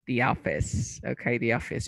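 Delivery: "the office" with THE said dee. Shown as a demonstration. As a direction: model "the office", dee before the vowel. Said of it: "voy a pronunciar".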